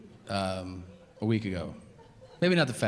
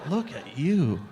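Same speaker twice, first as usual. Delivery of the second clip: mock shock. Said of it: "I was like".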